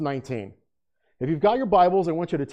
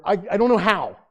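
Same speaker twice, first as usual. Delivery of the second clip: put-on helpless child; 4 semitones higher, 4 dB louder than usual. Foster child pleading ignorance of chore.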